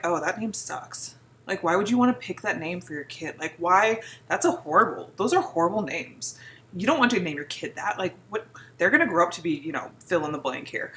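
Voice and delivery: low, dismissive imitation of a critic; mock disapproval. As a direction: scoff like a judgmental know-it-all. Mimics people criticizing baby names.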